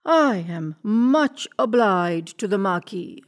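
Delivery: slow, stately king. Acted. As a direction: speak slowly like a gracious king. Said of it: "said the king".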